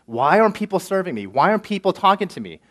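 entitled, self-important grumble; mock entitled whine. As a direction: play the proud newcomer demanding attention. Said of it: "there's a sense of self-righteousness, pride, entitlement".

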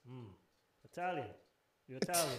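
put-on a touch of Yugoslav accent, pondering. Yugoslav store guy reading a customer's ID, lightly imitated accent. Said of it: "he reads my I D".

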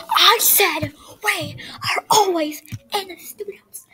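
high whispered sob; crying whisper. Acted. Kid answering mother back, crying whisper. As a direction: choke the words out in tears.

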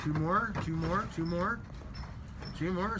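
rapid auctioneer chant. Pretend. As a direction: call out bids like an auctioneer. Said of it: "Sound like an auctioneer".

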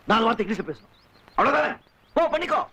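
scornful, heated dismissal; bitter anger. Acted. Bitter quarrel over marriage. (கசப்பும் கோபமுமாகக் குரலை உயர்த்தி)

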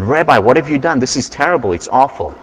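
a storyteller's mock horror, complaining to the rabbi; aghast villager. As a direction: villager protesting that his house is a mess. Villager aghast at chickens indoors.

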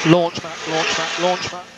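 high, loud repeated callout; urgent call. Acted. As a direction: call it out sharp. Pit stop launch call.

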